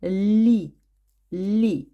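Лі read as a loud, clear syllable, twice; reading together. Shown as a demonstration. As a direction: read Лі aloud with the class. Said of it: "Разом прочитаємо його".

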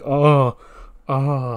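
acted groan, loud then easing; pained groan. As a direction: groan as if clutching a sore head. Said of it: "holding his head in pain".

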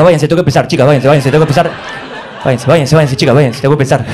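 put-on brisk teacher hurrying kids out; teacher shooing. Teacher tells students to leave, brisk and insistent. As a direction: shoo the class out.

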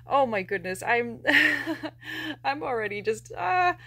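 choked up. Real, not acted. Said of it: "we're gonna have to try to settle ourselves down".

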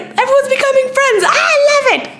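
high squealing joy; real delight. Real, not acted. Vlogger thrilled that fans are befriending each other, high squeal. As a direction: squeal it out, overjoyed. Thrilled about her hashtag friends.

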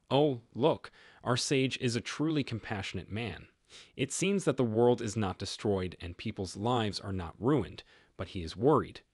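dry mocking praise; sarcastic. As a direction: lay the sarcasm on. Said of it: "says sarcastically".

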